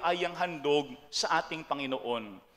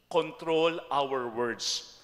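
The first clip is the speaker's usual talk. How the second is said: slow emphatic point; 3 semitones lower, much slower than usual. Acted. Repeats the second point.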